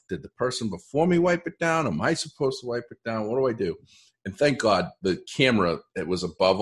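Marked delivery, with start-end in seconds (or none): 0.1-3.8 nervous inner voice. Retold or imitated. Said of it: "I'm thinking to myself".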